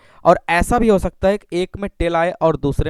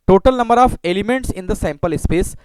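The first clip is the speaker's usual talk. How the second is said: slow, word by word, for students to write; slow dictation; much slower than usual. Shown as a demonstration. Teacher dictating the definition to the class, slowly. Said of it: "धीरे धीरे मैं पढ़ रहा हूँ".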